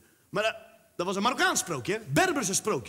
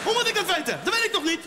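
mock defensive kid; 7 semitones higher than usual. Mock defensive Moroccan kid reply.

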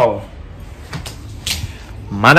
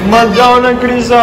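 playful pleading; 9 semitones higher than usual. Pretend. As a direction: beg the child to stay, high and whiny. Playfully begging child not to leave.

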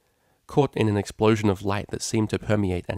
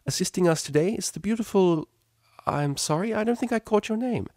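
higher, kindly teacher voice; friendly teacher; 11 semitones higher than usual. Acted. Teacher welcoming the cellist model, lightly voiced friendly mare. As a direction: greet them with easygoing warmth.

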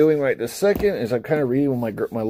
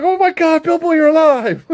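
high, loud overjoyed squeal, hammed up; high-pitched comic shock ending in laughter; mock amazement; 8 dB louder than usual. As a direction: squeal it like a friend back from the dead. Acts out friends finding Bilbo alive.

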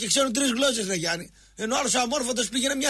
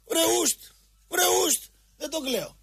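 scornful shoo; 7 semitones higher than usual. Real, not acted. Dismissing the seventy-year-olds.

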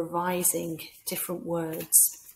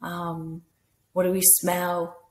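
slow mindful questions; slower than usual. Shown as a demonstration. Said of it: "mindful sort".

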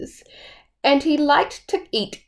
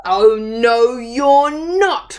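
loud troll roar; 2 semitones higher, 4 dB louder, slower than usual. Acted. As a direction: bellow it to stop the goat. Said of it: "roared the troll".

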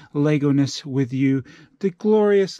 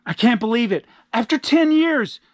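high, emotional reunion delivery; overjoyed disbelief; 6 semitones higher than usual. Acted. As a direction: gush with hammed-up amazement. Reunion with long-lost son.

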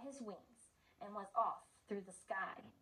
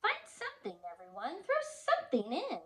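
cheerful grin; 3 semitones higher than usual. Acted. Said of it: "said with a grin".

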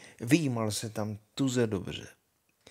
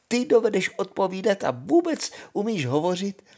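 zvolání; 8 semitones higher than usual. Acted. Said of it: "zvolala princezna".

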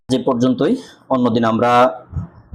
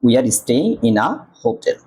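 slow demo reading; much slower than usual. Shown as a demonstration. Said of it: "আ বসে".

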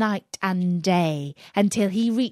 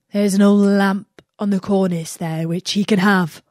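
whisper; 6 dB louder than usual. Acted. Slave speaks aside to princess.

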